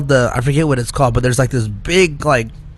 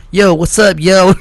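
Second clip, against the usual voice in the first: lightly voiced street slang, a bit higher; mock gangsta greeting; 4 semitones higher, 4 dB louder than usual. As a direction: playfully imitate a lady trying to sound street. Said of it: "watch a white lady be like".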